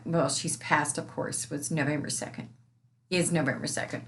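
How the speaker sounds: holding back tears; teary. Real, not acted. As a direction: voice thick with tears. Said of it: "Sorry, get a little teary here".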